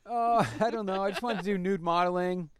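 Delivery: high, airy playing-dumb voice; mocking her as naive and clueless; mock innocent girl. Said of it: "'Cause she's talking about".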